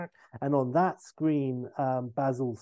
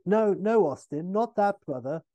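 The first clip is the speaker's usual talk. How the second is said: Basil; 6 semitones higher, 5 dB louder than usual. Retold or imitated. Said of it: "And Basil".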